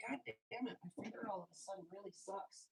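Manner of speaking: annoyed. Real, not acted. Itchy finger mid-talk.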